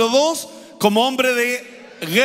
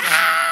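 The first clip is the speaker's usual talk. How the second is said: retold startled cry; 5 semitones lower than usual. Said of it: "la gente decía".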